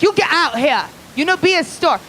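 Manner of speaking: put-on high-pitched scolding in an Asian accent; mock Asian accent. Clerk ordering bums out, high mock Asian accent. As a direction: shoo people out in caricatured Asian accent. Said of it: "they're like".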